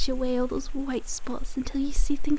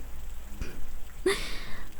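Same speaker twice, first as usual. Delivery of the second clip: mocking laugh; 7 dB quieter than usual. Mocking the listener's naivety.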